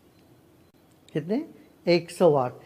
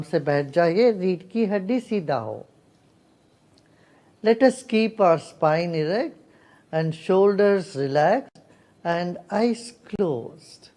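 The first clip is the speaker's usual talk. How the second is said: guided meditation. Real, not acted. (ध्यान कराती शांत, ठहरी हुई आवाज़)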